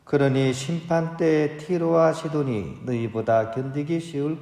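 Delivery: solemn, measured scripture proclamation; Gospel reading. Real, not acted. Priest reading Jesus' rebuke to the towns, solemn proclamation. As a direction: read it out evenly with formal phrase endings.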